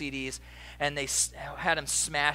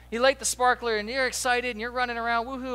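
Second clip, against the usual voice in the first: excited; 5 semitones higher, 4 dB louder than usual. Pretend. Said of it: "sparkler excitement acted".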